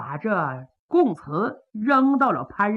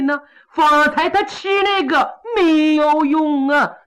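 proud minister; 4 semitones higher, 4 dB louder than usual. Acted. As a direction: declare it to the throne with relish. Kou Zhun announces to the court.

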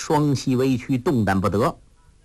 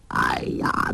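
whispered exclamation; 12 semitones lower than usual. A narrator's reading. Old man's exasperated sigh.

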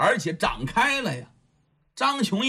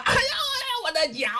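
very high yelping cry over a stamped foot; howling in pain; faster than usual. Acted. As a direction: yelp like your foot was just crushed. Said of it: "疼得王安国呀吱哇乱叫啊".

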